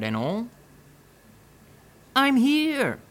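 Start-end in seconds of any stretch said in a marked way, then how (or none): 2.1-3.0 high, loud call from inside the box. Acted. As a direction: shout to be found. Missing bodyguard calls out found.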